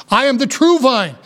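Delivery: "true" leaned on within the line; high-pitched line with the weight on "true"; stress on true. Shown as a demonstration. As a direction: put the emphasis on "true". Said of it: "the emphasis here is on the word".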